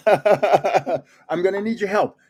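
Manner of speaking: slow, laughing through the words; laughing plea. Real, not acted. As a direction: laugh while begging for help.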